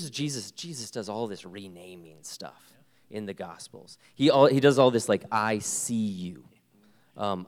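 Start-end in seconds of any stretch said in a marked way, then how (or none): 5.3-6.4 gentle whisper. Retold or imitated. Jesus voiced, renaming.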